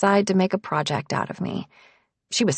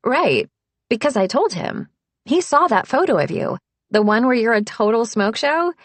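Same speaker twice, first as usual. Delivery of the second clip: higher, louder, chatty reassurance; breezy friend; 5 semitones higher, 5 dB louder than usual. A narrator's reading. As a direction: Harper brushing it off cheerfully. Harper answers brightly.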